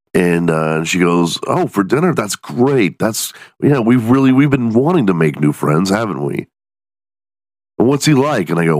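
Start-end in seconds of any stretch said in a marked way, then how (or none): 1.5-8.5 wife's voice. Retold or imitated. Wife's reply voiced in story.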